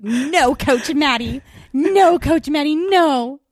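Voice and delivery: lightly imitated whining student, drawn-out NO; mock student voice. Cheer coach mimics her team protesting, mock student voice. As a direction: plead like a protesting pupil. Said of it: "that's a voice I always use for my students".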